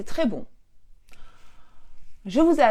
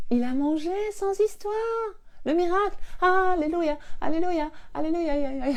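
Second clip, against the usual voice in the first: excited cheer; 7 semitones higher than usual. Real, not acted. Mother rejoicing that her son ate meat, excited cheer. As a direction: celebrate like a miracle happened. Celebrating the miracle.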